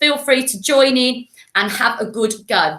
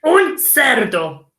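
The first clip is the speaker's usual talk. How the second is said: slow, snorty pig delivery; slow piggy voice; much slower than usual. Shown as a demonstration. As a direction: grunt it like a pig. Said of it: "snout of a pig".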